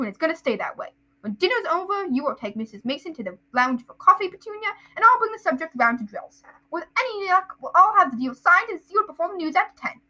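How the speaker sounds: pompous, forceful uncle laying out plans; Uncle Vernon. Acted. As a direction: lecture the household self-importantly. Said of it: "that's Vernon".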